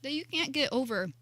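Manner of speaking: talking through a mouthful of cookie; mouth full. Real, not acted. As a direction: speak around a bite of food. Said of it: "Are you talking with your mouth full?".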